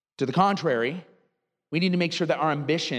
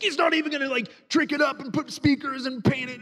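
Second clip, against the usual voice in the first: whiny brother imitation; 10 semitones higher than usual. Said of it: "he's like".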